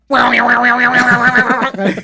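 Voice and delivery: bursting out in high laughter. Real, not acted. Laughing at the MRI memory.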